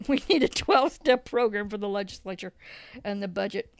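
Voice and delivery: wry remark with a real laugh; laughing as you say it; amused laughing. Real, not acted. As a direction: chuckle through your own joke. Laughs at own joke.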